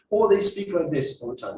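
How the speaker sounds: every phrase ending on a rise; rising tone demo. Shown as a demonstration. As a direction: lift the end of each phrase upward. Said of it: "Rising tone".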